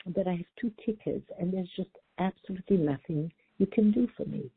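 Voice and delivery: soft, gentle echo of her words; compassionate repeat. Retold or imitated. Traveler calmly echoing the clerk's words, compassionate and soft. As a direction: say it back with deep compassion. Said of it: "repeat them from a place of deep compassion".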